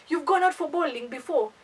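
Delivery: lightly put-on fake British accent. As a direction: mimic a date's phony UK accent. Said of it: "fake U K accent".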